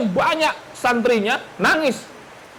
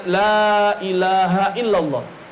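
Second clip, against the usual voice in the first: slow, drawn-out parrot recital; parrot reciting; much slower than usual. Retold or imitated. Preacher imitates the parrot reciting, slowly drawn out. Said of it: "dia mampu mengucapkan kalimat".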